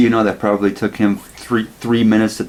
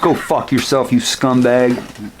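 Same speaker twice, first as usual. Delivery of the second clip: higher-pitched send-up of a raging gamer; mock angry rant; 4 semitones higher, slower than usual. Sore loser messaging the winner of a race, mock angry. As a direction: toss out the insult, imitating a sore loser.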